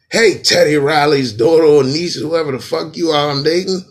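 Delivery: loud hammed-up boyfriend yelling; mock yell. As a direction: burst in shouting at her. Acted a rapper confronting girlfriend.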